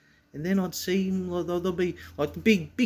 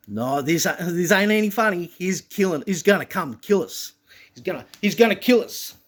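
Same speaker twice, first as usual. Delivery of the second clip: raised, urgent voice; mildly panicked; 3 semitones higher, 5 dB louder than usual. Retold or imitated. Big kids fleeing an enraged child, raised panicked protest. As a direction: imitate kids getting scared, voice climbing.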